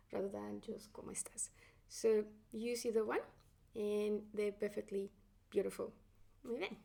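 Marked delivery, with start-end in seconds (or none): 0.1-1.5 whispered aside, much softer; whispered contrast. Real, not acted.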